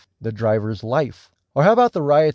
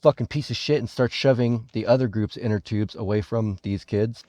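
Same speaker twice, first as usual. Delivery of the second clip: ordinary talk, nothing marked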